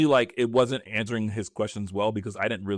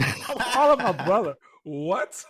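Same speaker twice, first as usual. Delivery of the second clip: laughing; 9 semitones higher, slower than usual. Real, not acted. Laughing at the wrong call.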